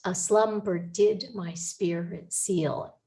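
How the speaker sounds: slow line of verse, every second syllable stressed in "A slumber did my spirit seal"; stressed iambic rhythm. Shown as a demonstration. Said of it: "the rhythm of the words".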